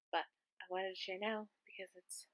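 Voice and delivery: hushed whisper; library whisper. Real, not acted. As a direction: whisper so nobody wakes. Whispering late at night.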